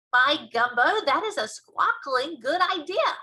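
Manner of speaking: loud, high burst of delight; excited storybook giant. Acted. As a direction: exclaim at a brilliant idea. BFG delighted by idea.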